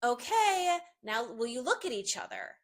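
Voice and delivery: cheery high call to the couple; bright bossy photo direction; photographer directing. Retold or imitated. Photographer calling to posing siblings, cheerfully. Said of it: "I'll say to them".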